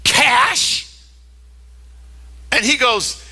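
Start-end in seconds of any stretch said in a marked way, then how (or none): 0.0-0.9 imitating an appalled gift recipient; mock-appalled question, each CASH rising in disbelief; horrified disbelief. Woman unwrapping cash from her boyfriend, horrified. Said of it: "horrified look on her face".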